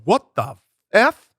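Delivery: high, drawn-out shocked question; retold jaw-drop, stretching the words; acted astonishment. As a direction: play up the disbelief, pitched high. Retells shock at seeing moose.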